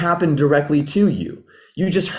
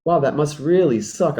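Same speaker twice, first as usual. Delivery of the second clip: empathetic. Shown as a demonstration. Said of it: "Then I need to tune into empathy".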